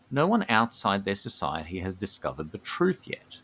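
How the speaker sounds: measured storyteller's read with deliberate pauses; lore narration. A narrator's reading. Co-host presenting the gnomes' Dreaming Society, measured lore narration. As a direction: unveil the secret phrase by phrase.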